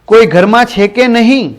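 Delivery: put-on old man yelling for help; calling out loudly. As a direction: shout for anyone at home, in earnest. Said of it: "જોર જોરથી બૂમો પાડવા માંડ્યા".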